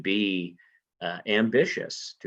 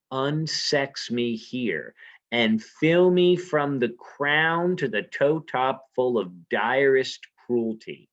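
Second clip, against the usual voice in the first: dramatic recitation; 3 semitones higher, slower than usual. Acted. Teacher reciting Lady Macbeth's call to the spirits, slow and intense. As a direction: summon the spirits slowly.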